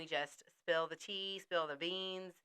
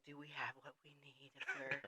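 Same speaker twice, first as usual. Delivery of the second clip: mock panic; 3 semitones lower, 14 dB quieter than usual. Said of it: "moment of panic of, like".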